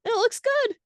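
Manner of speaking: high squeaky voice. Acted. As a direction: squeak it out like a cartoon. Character voice in story.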